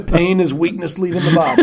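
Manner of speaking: mock drill sergeant through laughter; laughing. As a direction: bark a motto while cracking up. Joking military motto, laughing.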